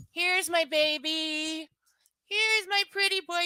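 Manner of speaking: slow, high cooing; cooing at dog. Real, not acted. Owner cooing at her dog, slow and tender. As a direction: coo over him, drawn out.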